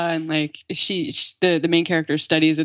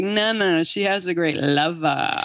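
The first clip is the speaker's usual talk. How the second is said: last word stretched out with relish; mock-sultry emphasis on "lover"; knowing correction. Correcting the naive family about the roommate, knowing relish. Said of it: "it's like".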